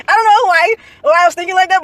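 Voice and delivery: bursting out laughing mid-sentence. Real, not acted. Laughing at herself over what she once thought. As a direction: laugh it out, a little embarrassed.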